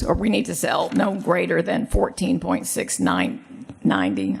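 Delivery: hoarse, voice giving out; losing voice. Real, not acted. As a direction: rasp through a failing voice. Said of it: "I'm losing my voice again".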